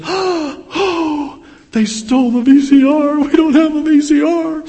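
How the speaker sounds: put-on high, loud child's wail of dismay; upset little boy. Son at supper finding VCR gone, high wail. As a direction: play the kid who just realised. Father voices young son's dismay.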